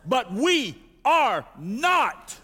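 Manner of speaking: slow, weighty reading with pauses; sermon reading, building to a cry; dramatic scripture reading. Acted. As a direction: lay each phrase down like a verdict. Reads scripture with emphasis.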